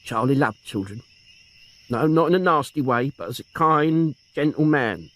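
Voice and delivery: put-on a lightly tearful old aunt; grieving old aunt. Aunt mourning her nephew and sister, tearful.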